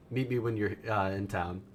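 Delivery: deadpan, level in-character reply; very monotone. Acted. Game master voicing a character's terse reply, very monotone. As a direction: give it as an unmoved monotone. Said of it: "He would just be very monotone".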